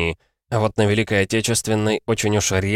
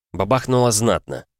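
ordinary delivery

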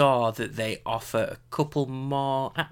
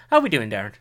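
posh voice; 6 dB louder, much faster than usual. Real, not acted. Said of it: "I don't know why I've got this posh voice".

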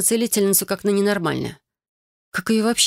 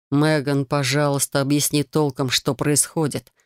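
тихо и вкрадчиво; 4 semitones lower than usual. Acted. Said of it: "тихим вкрадчивым голосом".

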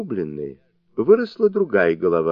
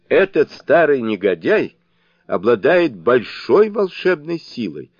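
raised, louder grumble; grumbling; 5 semitones higher, 4 dB louder than usual. A narrator's reading. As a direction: grumble aloud about the old foe. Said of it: "проворчал Сунь-Укун". (громкое ворчание)

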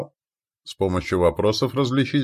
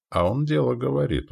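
higher-pitched, lightly amused remark; wry chuckle; 5 semitones higher, 4 dB quieter than usual. A narrator's reading. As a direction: concede it with a touch of amusement. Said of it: "усмехнулся левый". (с лёгкой усмешкой)

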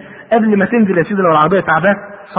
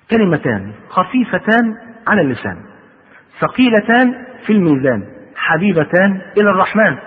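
slow phrases with long pauses; measured, formal sacred quote; hadith recitation; slower than usual. A narrator's reading. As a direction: recite it slowly, letting each phrase settle.

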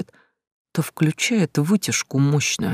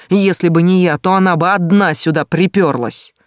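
defensive shout; 4 semitones higher, 5 dB louder than usual. Acted. Mark defends himself, shouting.

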